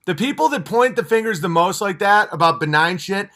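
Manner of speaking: ordinary talk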